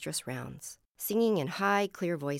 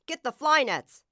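loud, raised commander's bark; barked order; 10 semitones higher, 10 dB louder than usual. A narrator's reading. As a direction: bark it at the troops. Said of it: "he barked".

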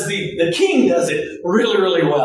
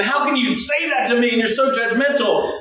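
mock indignation; 3 semitones higher than usual. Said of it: "smoke screen of anger".

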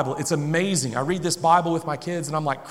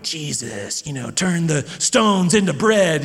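drawn-out storybook villain, lightly voiced; Satan villain voice; slower than usual. Dad reading Satan's part to his boys, mock villain. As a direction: lightly play a slow, taunting tempter. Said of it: "act like and talk like this villain".

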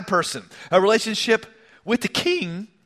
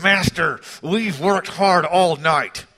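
strained politeness, drawn out; slow, over-polite protest; forced toothy grin; slower than usual. Acted. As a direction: say it through a forced, toothy smile. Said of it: "through a forced, toothy grin".

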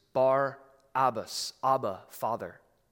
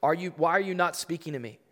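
higher, louder demanding question; indignant Pilate; 5 semitones higher, 6 dB louder than usual. Acted. Pilate demanding Jesus answer him, raised indignant voice. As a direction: Pilate pressing the silent prisoner. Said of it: "Then Pilate said to him".

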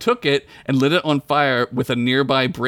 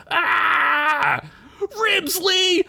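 anguished shout; much slower than usual. Acted. Fallen frog's comrade cries out.

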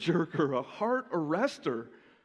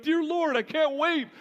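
raised, pleading plea to God, half joking; mock exasperated prayer; 6 semitones higher than usual. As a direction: sigh to heaven in jest. Pastor voicing his own exasperated thought.

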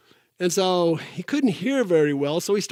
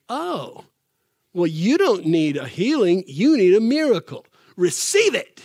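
rising bold command; 2 semitones higher, 4 dB louder than usual. Retold or imitated. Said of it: "he's like".

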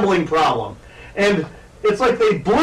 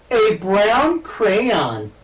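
put-on slow little-kid voice, words drawn out; toddler talk; 3 semitones higher, much slower than usual. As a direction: talk like a three-year-old. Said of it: "That's my three-year-old voice there".

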